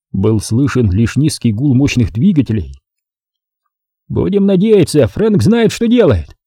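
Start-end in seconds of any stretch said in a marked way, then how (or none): 4.1-6.4 high, anxious voice; nervous. A narrator's reading. Macintyre fretting to his partners, nervous. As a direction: say it worried and tense. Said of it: "нервно проговорил Макинтайр".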